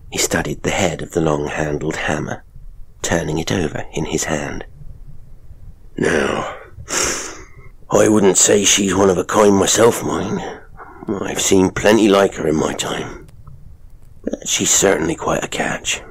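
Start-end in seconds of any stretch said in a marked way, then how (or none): 6.0-16.0 sly showman father. Acted. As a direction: lean in and taunt her. Father leers.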